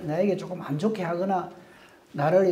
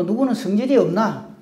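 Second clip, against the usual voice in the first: mock temper; 3 semitones higher, 4 dB louder than usual. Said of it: "하면서 성질을 부리거나".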